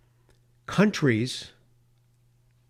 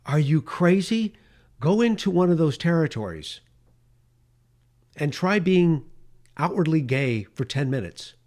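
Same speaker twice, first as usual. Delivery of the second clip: exasperated imagined rant; 3 semitones higher, 4 dB louder than usual. Retold or imitated. Host imagining yelling at marchers, indignant and loud. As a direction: scold them in disbelief.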